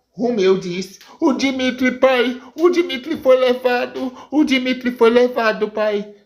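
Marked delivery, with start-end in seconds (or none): 1.2-6.1 a touch of tearful panic, pitched higher; lightly voiced boy, choked up and pleading; crying son. Menino conta ao pai que Dimitri foi levado, choroso. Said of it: "Por que você tá chorando desse jeito".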